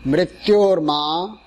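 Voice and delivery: slow, one word at a time. Shown as a demonstration. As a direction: break it into slow single chunks. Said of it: "one word at a time".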